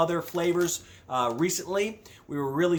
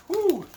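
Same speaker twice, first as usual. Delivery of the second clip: high whew; 14 semitones higher, 3 dB louder than usual. Real, not acted. Reacting to spice heat.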